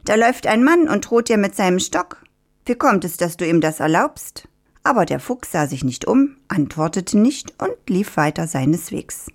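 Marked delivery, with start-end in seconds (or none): 0.0-4.5 higher, goading rooster. Acted. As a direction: egg the fox on as a sly rooster. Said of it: "rief der Hahn". (hohe, stichelnde Hahnenstimme)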